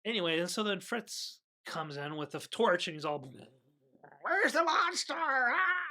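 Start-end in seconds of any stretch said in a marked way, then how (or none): 4.2-5.8 high, loud panicked shriek as the monster appears; high frightened cry; startled scream. Retold or imitated. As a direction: yelp in sudden fright. Fritz sees monster, screams.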